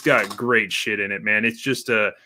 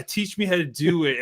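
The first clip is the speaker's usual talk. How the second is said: mocking cheesy line; 6 semitones higher than usual. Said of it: "It's like, dude".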